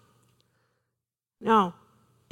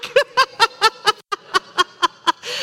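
long laugh; 7 semitones higher than usual. Real, not acted. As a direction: keep laughing. Laughing at own story.

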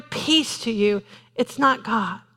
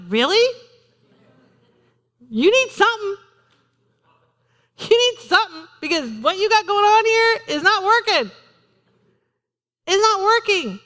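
much higher, louder exasperated reply; incredulous retort; 9 semitones higher, 3 dB louder than usual. Retold or imitated. Preacher retorting to relatives who skip church, exasperated. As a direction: tell them straight, exasperated. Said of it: "You just look at them like".

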